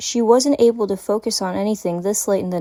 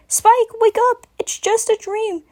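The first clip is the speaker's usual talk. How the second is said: urgent call; 14 semitones higher, slower than usual. Acted. Twilight urging the dreaming dragon to wake, high urgent call. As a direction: shake him awake with your voice. Twilight shakes Spike awake.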